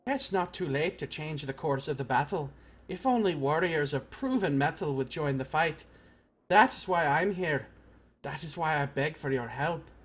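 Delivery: lightly voiced warrior making an appeal; understated character plea; game recruiter. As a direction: appeal for help as an earnest warrior.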